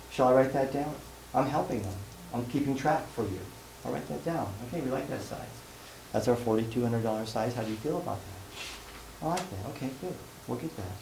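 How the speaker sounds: quietly help the client along without pressure; gentle, unpressured salesperson demonstration; non-confrontive closing. Shown as a demonstration. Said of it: "it's just non-confrontive".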